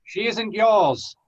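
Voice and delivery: slow, defiant; defiant retort. Acted. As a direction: stand up to the villain.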